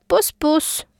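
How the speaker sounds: high cooing smooch voice; kissing dogs. A narrator's reading. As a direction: coo it like a lovestruck dog.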